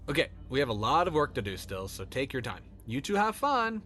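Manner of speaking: friendly dad. Acted. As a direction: greet the kid brightly. Dad voiced in story.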